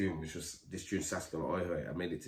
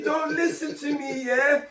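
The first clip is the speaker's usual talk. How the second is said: sarcastic thought; slower than usual. Retold or imitated.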